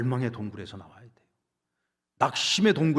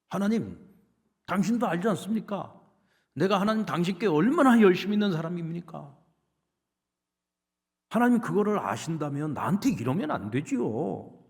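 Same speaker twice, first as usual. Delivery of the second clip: higher, pleading complaint to God; complaining Elijah; 6 semitones higher, 5 dB louder than usual. Acted. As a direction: protest that you deserve better. Preacher voices Elijah complaining to God.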